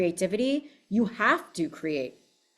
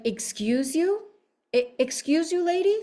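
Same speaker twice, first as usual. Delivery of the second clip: rising indignant excuse you, climbing higher each time; offended, talking back to the boss; 9 semitones higher than usual. Retold or imitated. To her manipulative yoga teacher, higher and higher indignation. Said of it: "it was like".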